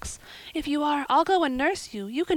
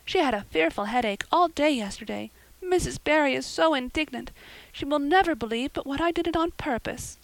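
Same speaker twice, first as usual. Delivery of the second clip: put-on distressed girl; 7 semitones higher than usual. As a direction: explain anxiously, nearly in tears. Anne voiced high.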